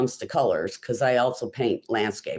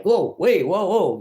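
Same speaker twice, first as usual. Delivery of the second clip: mock surprise; 6 semitones higher, 3 dB louder than usual. Mock reaction to her popping up.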